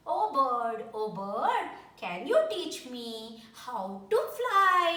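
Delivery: loud, eager call up to the bird. Acted. Elephant calls up to bird.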